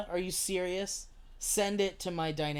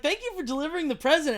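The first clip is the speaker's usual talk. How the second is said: higher, louder, quick mock thanks; imitating Wendy; 9 semitones higher, 5 dB louder, faster than usual. Wendy thanking the streamer for a delivered gift, imitated in a high voice. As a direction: mimic her in a raised, hurried voice. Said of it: "and then she's like".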